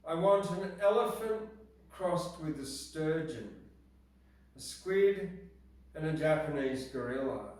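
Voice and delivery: reciting a short rhyming poem, building; poem reading. Acted. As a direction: read it with punchy emphasis. Reads her perfect pet poem.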